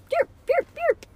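very high puppy yips; dog yapping. A narrator's reading. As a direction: yap like a little dog. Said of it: "she got on her hands and knees and panted".

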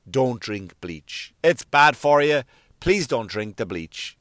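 put-on low, slow talking-down voice, as to a small child; deep, slow mock lecture to an adult; patronising warning. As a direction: spell it out like a weary parent.

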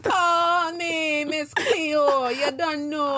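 bad Jamaican accent. Co-host playing Miss Cleo for laughs, bad Jamaican accent. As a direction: stretch out a hammy Jamaican accent. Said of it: "Our accents are not that good".

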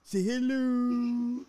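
high, slow "say hello" to a bird; teaching a parrot. Retold or imitated. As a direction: coax it like a pet parrot. Mimicking the parrot clip's "say hello.

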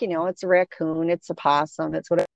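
retold casual, dismissive reassurance; low-key brush-off, as if it's nothing; downplaying. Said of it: "I'm trying to downplay it".

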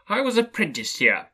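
high, eager recognition; delighted exclamation. A narrator's reading. Scrooge tells the ghost of his apprenticeship, delighted exclamation. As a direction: say it high, thrilled to know it.

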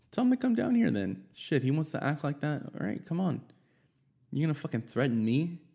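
high, loud challenge flung at a rival; daring him to come down and face me; retold yell. Narrator daring his friend's fiance to come fight, loud mock yell.

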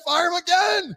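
high shouted cartoon boss; mock owner shout. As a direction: bark the order like a crazy owner.

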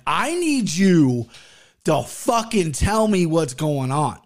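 slow, drawn-out mock yell; retold yell. Driver to stepfather on the highway, mild retold yell. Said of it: "like, yelling at him".

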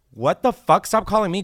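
exaggerated indignant reaction; mock outrage. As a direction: play appalled at the caller. Acts out reaction to misheard phrase.

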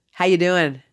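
loud, breezy stranger striking up talk; chatty seatmate. Retold or imitated. Guy next to her on the plane, chatty.

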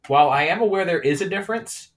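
wobbly Celtic accent, part Irish and part Scottish; attempted Scottish accent. Shown as a demonstration. Demonstrating least favorite accent, attempted Scottish. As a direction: try a shaky-footed Scottish lilt. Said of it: "So that one was clearly Scottish".

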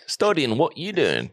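put-on lightly borrow her European accent. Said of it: "Oh, I like that".

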